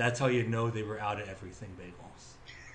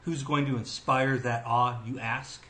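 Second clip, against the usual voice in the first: big show-host build to the name; announcer intro; 2 semitones higher, 3 dB louder than usual. Acted. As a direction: announce the guest, building louder.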